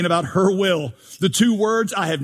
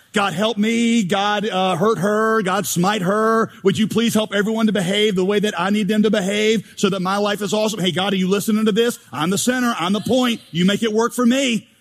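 mock selfish prayer; 2 semitones higher than usual. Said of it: "summarize some of your prayer lives".

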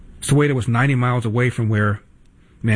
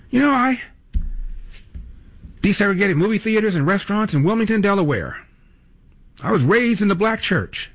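mock Biden quote; 7 semitones higher than usual. Mocking Biden's claims in quote.

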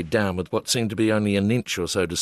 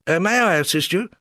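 much higher, plummy English squire voice; British gentleman stepping in, posh squire voice, much higher; Shropshire squire; 9 semitones higher than usual. Retold or imitated. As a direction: greet like a fox-hunting English squire. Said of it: "sounding like a squire".

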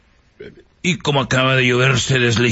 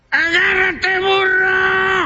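high shouted call; shouted command; much slower than usual. Acted. Ant in the Mercedes calling the donkey, high shout. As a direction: yell at the donkey to hold on.

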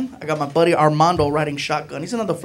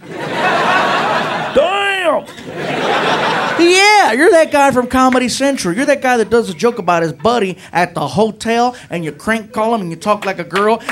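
excited cop; 2 semitones higher than usual. Retold or imitated. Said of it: "looking at him like".

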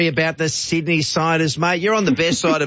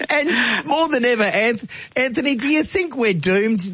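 laughing through words; 7 semitones higher than usual. Real, not acted. Host laughing while asking.

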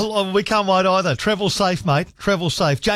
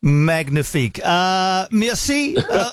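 playful mock French accent; lightly hammed-up French accent, drawn out on the name; much slower than usual. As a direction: sign off in a put-on French accent. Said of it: "I'm putting a French accent on this".

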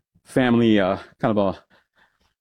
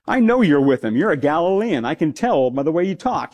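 higher, pointed accusation; insistent accuser; 6 semitones higher than usual. Retold or imitated. Bystander accuses Peter by his accent, higher and pointed. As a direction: call him out as a Galilean.

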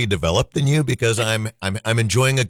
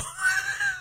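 a quick high sobbing wail; mock sob; 8 dB quieter than usual. Host recalling bawling at Ghost, quick mock sob. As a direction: burst into a short comic sob. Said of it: "I start bawling".

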